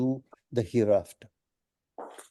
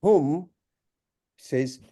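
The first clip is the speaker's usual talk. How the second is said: ordinary delivery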